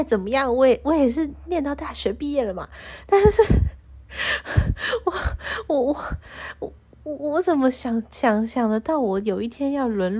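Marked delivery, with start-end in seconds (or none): 3.1-7.1 high loud burst into laughter; a sudden loud laughing "but"; laughing outburst. Real, not acted.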